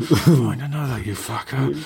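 put-on, through gritted teeth. Reading a seller's listing aloud to the others, mock through gritted teeth. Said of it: "Through gritted teeth".

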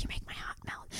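hushed, soft, breathy whisper, barely voiced. Retelling what the Bachelorette whispered to a contestant: imitating her whisper.

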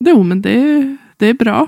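tentative, doubtful, very unsure tone. Answering in a conversation, sounding very unsure. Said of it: "Jag lät jätteosäker".

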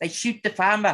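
put-on very high-pitched South African accent. Chatting about accents, one speaker puts on a south african accent. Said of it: "my South African accent".

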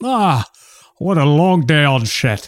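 slow, unhurried movie-star drawl. Role-playing an actor arriving at an izakaya after filming: Sean Connery voice. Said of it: "I'm Sean Connery".

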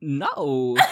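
terse, one-word impersonation. Imitating a character saying no: Christopher Walken voice. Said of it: "my Christopher Walken impersonation".

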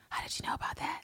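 big, hushed stage whisper meant to carry. Reading a script line as John Booth: big whisper. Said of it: "John Booth has a big whisper saying".

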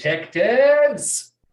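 very high, very loud calling. Retelling a film scene where a killer calls to detectives: John Doe yelling out. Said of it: "he yells out".

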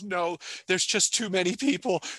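very high speech broken by sobs. Retelling a crying little girl's answer to her dad, the speaker imitates someone crying. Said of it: "between sobs, she's saying too many people".

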